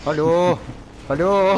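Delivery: loud high hello calls; calling out. Real, not acted. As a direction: call out loudly. Calling out loudly.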